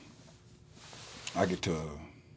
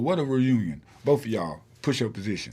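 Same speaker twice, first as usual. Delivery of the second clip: louder, higher sarcastic order; mock drill sergeant; 4 semitones higher, 6 dB louder than usual. Sergeant ordering both cousins down, mildly hammed-up. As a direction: bark the punishment with mock delight. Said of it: "He said".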